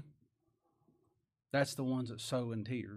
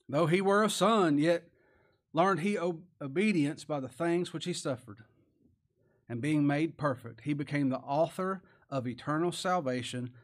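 loud scripture reading; 4 dB louder than usual. Acted. Scripture read loudly.

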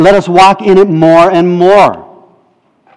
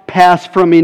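a raised, pleading cry to the Father; 3 semitones higher than usual. Retold or imitated. Preacher voicing Jesus praying in Gethsemane, a pleading cry. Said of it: "he cries out".

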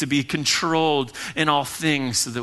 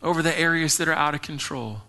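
gracious, kindly; 3 semitones higher than usual. Acted. God coming to the believer with help, kindly gentle voice. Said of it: "that is God graciously, kindly coming to you".

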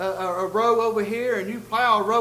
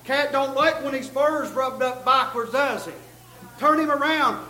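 preacher yelling back; 4 semitones higher, 4 dB louder than usual. Retold or imitated. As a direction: fire it back at the heckler from the pulpit. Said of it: "the preacher yelled back".

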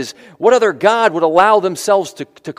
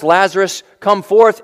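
Lazarus called out, a touch louder; commanding call; 3 semitones higher, 4 dB louder than usual. Retold or imitated. Jesus calling Lazarus from the tomb, commanding. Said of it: "he's the one who can speak words".

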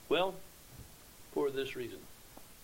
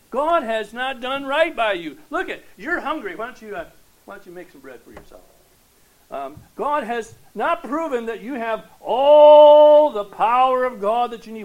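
louder, pressing devil taunting; tempter's voice; 7 semitones higher, 17 dB louder than usual. Acted. The devil tempting Jesus in the wilderness, loud and pressing. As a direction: push the bait like the devil. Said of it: "he uses the same argument against the Lord Jesus".

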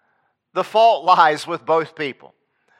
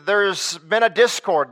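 slow, weighty restatement; drawn-out preacher emphasis; slow emphatic; 2 semitones higher, slower than usual. Acted. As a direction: let each word land slowly. Preacher repeats key line.

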